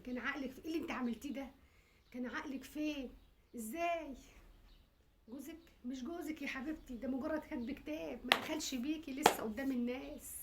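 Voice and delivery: mother at her wits' end, scolding; a frantic mother breaking down; distraught mother. Acted.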